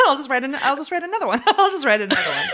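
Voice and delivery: high laughing resignation. Pretend.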